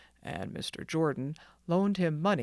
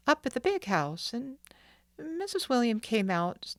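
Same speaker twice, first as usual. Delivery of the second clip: put-on a lightly raised boy's voice, hesitant; halting young boy; 3 semitones higher than usual. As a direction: sound like a boy hiding his hurt. Narrator voices the boy Will.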